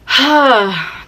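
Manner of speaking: big audible sigh, acted out; dramatised sigh of disbelief; acted inward sigh. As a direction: let out one long exasperated sigh. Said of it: "that's me in my head".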